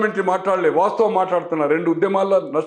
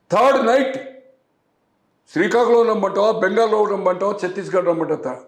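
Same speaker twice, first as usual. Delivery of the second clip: retold defiant threat. Answering the threatening caller, a retold raised defiant reply. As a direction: throw the challenge back, voice up. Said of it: "high టోన్తో మాట్లాడతా".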